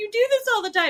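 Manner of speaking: tearful, blubbering, high, loud sobbing outburst. Retelling a drunk friend's accusation during a fight: imitating someone sobbing.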